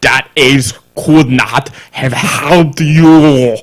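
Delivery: slow, hammed-up bad Russian accent; drawn-out gibberish Russian accent; terrible Russian accent. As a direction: quote it in a mangled, laughably thick Russian accent. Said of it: "just do a terrible gibberish accent".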